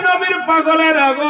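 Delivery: acted scream. Mother seeing the fire for her son, acted high scream. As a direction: scream it out high, stretching the end. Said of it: "চিৎকার মেরে বলে".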